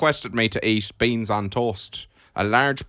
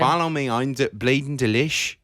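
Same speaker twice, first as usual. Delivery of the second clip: Dublin accent. Shown as a demonstration. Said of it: "That's pretty good".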